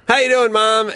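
high cheerful call to mom; cheery greeting. Retold or imitated. Son greeting his mom on the phone, cheerfully. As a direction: sing it out brightly. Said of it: "I'll do the".

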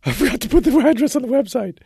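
shrieking high night-terror panic, hammed-up; mock panicked scream about the website. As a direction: jolt awake screaming in fake terror.

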